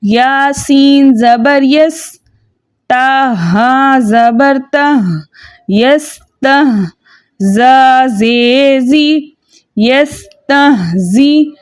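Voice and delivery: drawn-out syllable-by-syllable spelling; chanted Quran spelling drill; slow spelling drill. Shown as a demonstration. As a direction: sound out each letter slowly for students. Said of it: "हमने इसका जोड़ कैसे करना है?".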